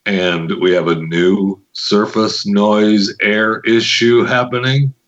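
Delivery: low, slow, close to the mic. Pretend. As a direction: lean in and purr it low and slow. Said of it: "I'm gonna have to talk like this".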